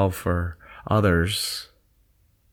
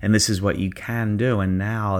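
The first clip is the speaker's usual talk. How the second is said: guided meditation. Acted. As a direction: ease them into their zone. Leads a guided visualization.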